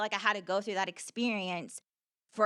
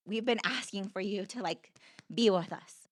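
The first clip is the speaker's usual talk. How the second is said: voice of her heart. Retold or imitated. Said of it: "it was like my heart".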